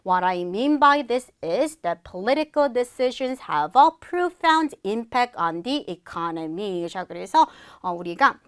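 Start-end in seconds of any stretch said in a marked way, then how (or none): 0.0-6.9 slow, deliberate English model sentence; model reading. Shown as a demonstration. Teacher models second explanation for students, slow measured reading. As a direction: read slowly, phrase by phrase. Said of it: "두 번째 설명 내용 살펴보도록".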